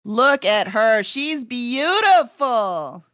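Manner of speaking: slow, drawn-out admiration; slow, awed praise; admiring. Real, not acted. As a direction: savor each word as you gaze at it. Admiring the revealed cover.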